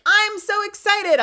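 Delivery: very high, loud, stretched squeal; hammed-up excitement, drawn out; mock gushing. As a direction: imitate an over-excited friend squealing. Mimicking gushing peers again.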